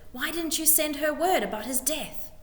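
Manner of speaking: a displeased nobleman pressing his officer; scheming courtier. A narrator's reading. Lord demanding answers from his major, sharply. Spittleworth voiced in story.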